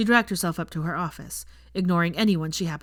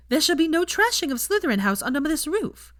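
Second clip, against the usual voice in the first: mock-haughty decree; 10 semitones higher, 5 dB louder than usual. Pansy defends Slytherin House.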